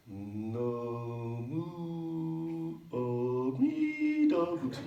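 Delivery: slow chanted "Namu Amida Butsu", MI high and loud; drawn-out "Amida" with a big punched MI; stress on mi. Pretend. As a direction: hold back on "Namu", then leap up on "mi" of "Amida". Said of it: "Now you're saying".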